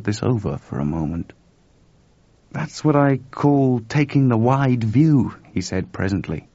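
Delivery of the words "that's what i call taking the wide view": dry remark. A narrator's reading. George, dry slow remark.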